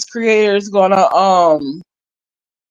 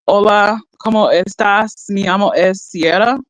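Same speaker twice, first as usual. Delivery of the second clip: Spanish phrasebook voice. Shown as a demonstration. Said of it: "or I said".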